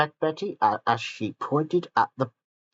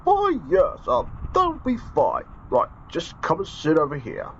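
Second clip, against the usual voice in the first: excited Gordon; 5 semitones higher than usual. Acted. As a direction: squeal it out with delight. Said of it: "said Gordon".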